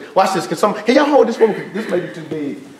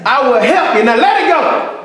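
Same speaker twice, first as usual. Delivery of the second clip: voice of God; 3 semitones higher than usual. Retold or imitated. God's voice in the joke.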